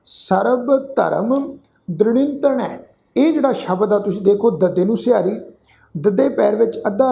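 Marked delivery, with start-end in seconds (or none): 0.0-2.8 slow, drawn-out sacred recitation; scripture recitation. Shown as a demonstration. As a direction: recite slowly, holding the long vowels.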